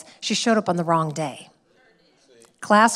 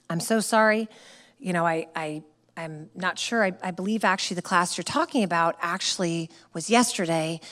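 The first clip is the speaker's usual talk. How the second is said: softer, measured retold apology; calm apology; 2 semitones lower, 3 dB quieter than usual. Studio owner answers an irate customer, calm and apologetic. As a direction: gently correct without confronting. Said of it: "just responded kinda calm".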